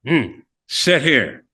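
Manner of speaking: slow, lightly voiced smoking lady; a hint of a cigarette-holding lady, very slow; short lady with cigarette. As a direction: imitate her with drawn-out, unhurried words. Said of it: "like the short lady like this with a cigarette".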